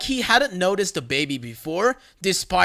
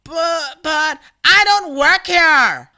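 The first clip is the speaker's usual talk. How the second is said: meek; 10 semitones higher, 8 dB louder, slower than usual. Retold or imitated. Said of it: "relatively meekly".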